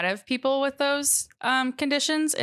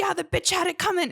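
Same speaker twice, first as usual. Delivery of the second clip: higher, mock-callous retort; imitating callous stalker; 9 semitones higher than usual. Stalker answers the police officer, imitated with callous dismissiveness. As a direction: toss it off like he doesn't care. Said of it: "And he goes".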